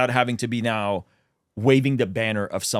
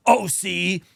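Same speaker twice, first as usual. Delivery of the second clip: mocking critics; 4 semitones higher than usual. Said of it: "go and say something like".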